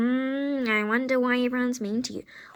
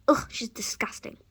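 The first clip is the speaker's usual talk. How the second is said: disgusted mutter; 2 semitones lower, 4 dB quieter than usual. Acted.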